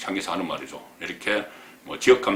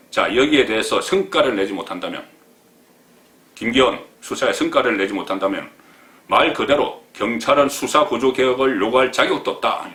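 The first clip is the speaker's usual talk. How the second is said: mild mock pressuring; 3 semitones higher, 5 dB louder than usual. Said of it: "경찰을 막 압박을 하는 겁니다".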